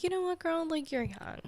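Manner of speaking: lightly voiced encouraging inner voice; reassuring inner voice. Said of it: "the part that I've cultivated is always like".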